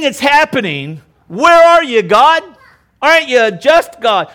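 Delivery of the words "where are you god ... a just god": high, loud desperate plea; psalmist's anguished cry. Acted. Psalmist crying out to a silent God, high and loud. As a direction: demand an answer from God, loud. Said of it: "All that stuff that these guys felt".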